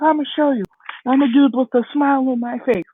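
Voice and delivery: put-on high, earnest young hero voice; retold boy insisting he can do it; determined vow. Deku vowing to show all of you, determined. Deku vows to his mother.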